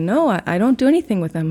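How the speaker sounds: quick, light hint of a Kentucky accent. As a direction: rattle it off in a faint Kentucky accent. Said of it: "in his Kentucky accent".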